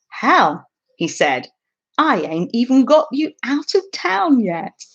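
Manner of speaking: reading a novel aloud with light character voices; storyteller reading aloud; story reading. A narrator's reading. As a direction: read the passage to your viewers, unhurried. Reads a novel passage aloud.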